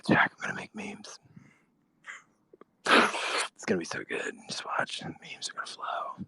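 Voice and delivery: whispered, soft mock voice; breathy whisper, like a secret plan; Carpe Diem impression. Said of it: "Here's my impression of Carpe Diem".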